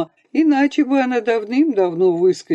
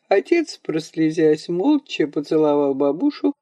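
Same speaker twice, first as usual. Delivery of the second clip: plain reading voice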